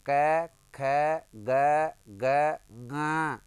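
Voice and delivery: क, ख, ग, ग each held apart, the last ग through the nose; letter-sound drill. Shown as a demonstration. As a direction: chant out क ख ग ग ग singly, ending on nasal nga. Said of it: "नाक से।". (क ख ग ग ग अलग-अलग, आख़िरी नाक से "ङ")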